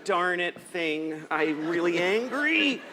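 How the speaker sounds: drawn-out, mild mock anger kept clean for the kids; held-in anger. Dad cursing mildly in front of his kids, held-in anger. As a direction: stretch out each word, acting politely furious. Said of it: "And inside I'm just steaming".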